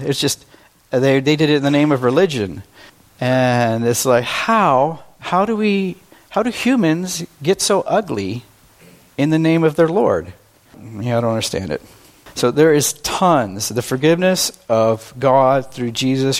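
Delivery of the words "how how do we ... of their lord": exasperated disbelief. Real, not acted. Outrage at religious violence.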